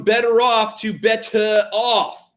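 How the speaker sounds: "better off" said with a mock French lilt the second time; new pronunciation. Shown as a demonstration. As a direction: say "better off" first plainly, then Frenchified. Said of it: "we will change the pronunciation".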